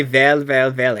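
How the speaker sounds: loud "Well, well, well" in a made-up accent; character tic in accent. Shown as a demonstration. Game master shows the Hutt's tic, made-up accent. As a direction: show off the accented catchphrase. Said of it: "That's his character tick now".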